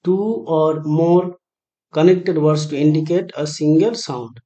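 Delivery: slow, deliberate answer reading; answer reveal. Acted. Teacher announcing the correct answer to students, slow and deliberate. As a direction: lay the answer down slowly. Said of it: "So এটার উত্তর হবে".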